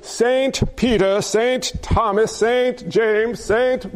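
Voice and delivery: put-on slow, light British accent; lightly put-on British lilt, drawn out. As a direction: intone each name with a touch of British accent. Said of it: "keep going to the British accent".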